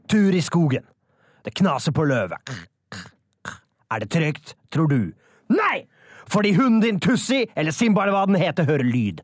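hammed-up radio drama, shouted monsters and sound effects; overdreven hørespill. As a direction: act the wolf drama wildly, yelling the beasts. Performs a wolf radio drama. (overdrevet hørespill med rop og lydeffekter)

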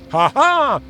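high, acted gotcha cry; triumphant aha. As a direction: pounce with a sudden high "Haha!". Prince springs out triumphantly. (triumferende utrop)

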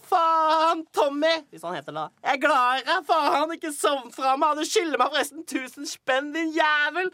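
frantic shout, jumping between pleading and cursing; yelling at overdosed friend. Retold or imitated. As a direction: scream at him to wake up. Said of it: "vi bare skriker sånn".

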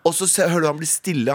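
normal talking voice

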